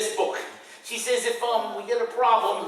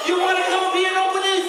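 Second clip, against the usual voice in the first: playful challenge; 6 semitones higher, faster than usual. Real, not acted. Teasing heckling kid.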